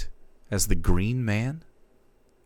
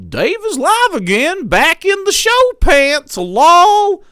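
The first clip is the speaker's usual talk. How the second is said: much higher and much louder, grand theatrical delivery; hammed-up Shakespearean actor; 15 dB louder, slower than usual. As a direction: declaim it like a stage ham. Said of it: "my best voice impressions ... Shakespearean play".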